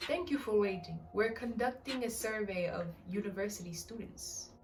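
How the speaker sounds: poorly attempted São Paulo accent; lightly put-on São Paulo accent, polite caller; badly faked accent. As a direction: fake a São Paulo accent, not very well. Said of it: "That accent sucks. I'm so sorry".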